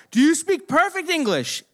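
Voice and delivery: high, re-enacted yelled question; shouted demand. Shouts questions through the door.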